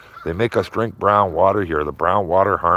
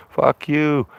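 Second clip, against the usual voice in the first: mock telling off; 7 semitones higher than usual. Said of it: "I go".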